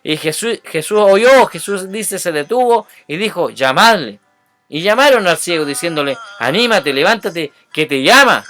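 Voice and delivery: loud, animated Bible reading; emphatic scripture reading. A narrator's reading. Preacher reads the Bartimeo story to listeners, emphatic and loud. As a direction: read the verses out with ringing emphasis.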